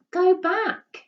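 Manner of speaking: high, loud desperate yell; boy screaming at his lion. A narrator's reading. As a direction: shout the lion away. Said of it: "yelled Bertie".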